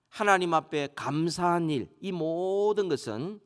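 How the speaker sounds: normal talking voice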